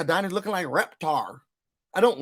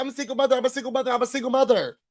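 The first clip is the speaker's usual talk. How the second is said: high, repetitive mock scream without real shouting; 6 semitones higher, much faster than usual. Recapper mocking Angel as a single mother, mock screaming. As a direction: imitate a high-pitched screamer on a loop. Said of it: "Why is Angel not screaming".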